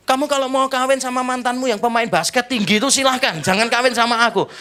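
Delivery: high, loud jealous outburst; mock-angry husband's rant. Touchy husband snapping at his wife over a ladder, angry. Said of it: "Marah dia".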